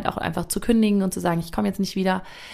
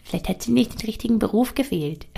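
inner critic voice. Retold or imitated. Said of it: "immer wieder in meinen Kopf reingegrätscht und gesagt".

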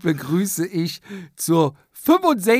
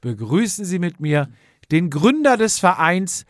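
announcer introduction. Acted.

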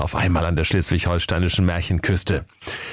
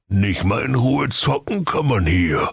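cursing. Acted. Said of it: "fluchte der Knecht Ruprecht".

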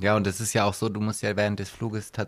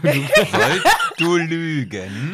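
laughing; 8 semitones higher, 8 dB louder, much slower than usual. Real, not acted. Laughing during teasing question.

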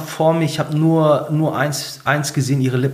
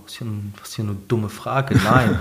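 lightly voiced girlfriend, scornful; 5 semitones lower than usual. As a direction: brush it off, a bit mocking. Girlfriend mocks the question. (leise, abschätzig als Freundin)

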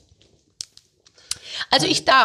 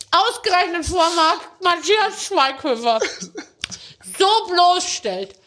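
mock indignation; 6 semitones higher, slower than usual. Real, not acted. Mock outrage while laughing.

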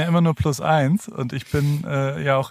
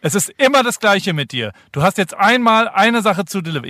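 ordinary talk

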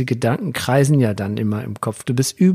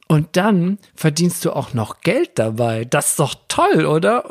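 little son; 3 semitones higher than usual. Retold or imitated. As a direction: imitate a small boy patiently pointing out the obvious. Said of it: "Dann sagte er". (höhere, langsame Kinderstimme, nachgeahmt)

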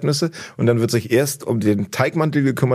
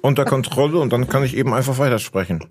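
Wasser im Mund. Real, not acted. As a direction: still holding water in the mouth. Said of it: "Ich erschaffe ein Vakuum in meinen beiden Wangen". (mit Wasser im Mund weitersprechen)

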